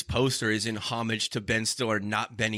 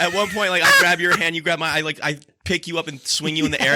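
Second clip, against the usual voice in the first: higher and louder, building the fight scene; excited, higher and louder; excited storytelling; 4 semitones higher, 5 dB louder than usual. Real, not acted. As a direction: pitch it up with glee.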